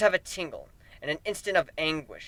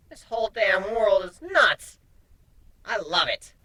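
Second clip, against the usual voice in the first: excited exclaim; 5 semitones higher than usual. Acted. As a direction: savor the craziness. Nightmare exclaims delighted.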